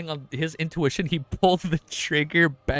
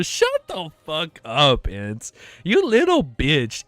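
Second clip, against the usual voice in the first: mock taunting; much slower than usual. Real, not acted. Cheering hero against villain.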